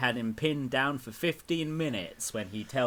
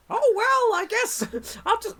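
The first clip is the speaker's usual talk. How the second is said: put-on much higher, meek kid voice; higher, louder cartoon kid voice; Butters voice; 4 dB louder than usual. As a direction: go far up and sound timid. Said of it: "that sounds more like Towley".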